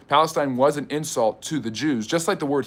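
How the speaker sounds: mock-indignant cable-news pundit, lightly done; Tucker Carlson voice. Host mocking trolls in a mild Tucker Carlson voice. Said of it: "I'm liking this accent too much".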